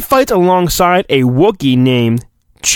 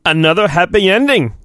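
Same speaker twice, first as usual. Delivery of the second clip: a barely-there Obi-Wan voice, near his own; a weak stab at Obi-Wan; horrible Obi-Wan. Acted. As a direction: lightly try on a wise Jedi tone. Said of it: "That's a horrible Obi-Wan".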